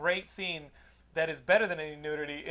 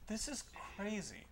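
laughing remark; 3 semitones higher, 14 dB quieter than usual. Retold or imitated.

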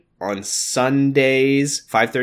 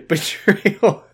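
dramatic announcer; 5 semitones higher, 4 dB louder than usual. Acted. Hammed-up chapter teaser reading.

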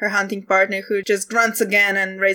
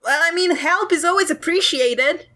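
sheepish; 8 semitones higher than usual. Acted. Hunter backpedals.

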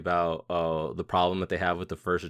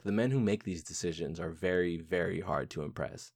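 very serious; 2 semitones lower, 6 dB quieter than usual. Retold or imitated. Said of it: "he's, like, very serious".

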